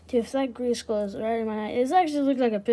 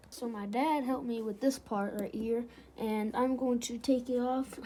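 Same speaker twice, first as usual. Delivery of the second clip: cowboy accent; 5 dB quieter than usual. Real, not acted. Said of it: "I sound like a freaking cowboy".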